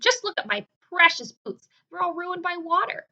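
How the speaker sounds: loud, high fussy lament; wailing complaint. Acted. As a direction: whine loudly about his boots. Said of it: "cried the centipede".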